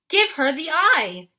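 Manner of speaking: high, loud, slow urgent scream. A narrator's reading. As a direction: scream the order at Percy. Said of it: "Annabeth screamed".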